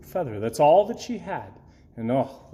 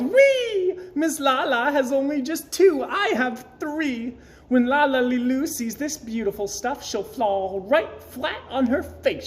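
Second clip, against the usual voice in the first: gleeful yell; 9 semitones higher than usual. A narrator's reading. Gertrude gloating over La La Lee Loo, high gleeful yell. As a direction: crow with glee, pitched way up. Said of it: "then Gertrude yelled".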